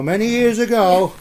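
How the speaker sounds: high, quavering fairy-tale opener; wobbly storyteller voice. Shown as a demonstration. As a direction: quiver it like a storybook intro. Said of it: "should we do that wobbly bit".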